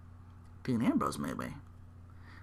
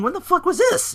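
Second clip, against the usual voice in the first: much higher indignant squeal; hammed-up upset champion; mock outrage; 3 dB louder than usual. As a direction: demand answers backstage. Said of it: "he's like".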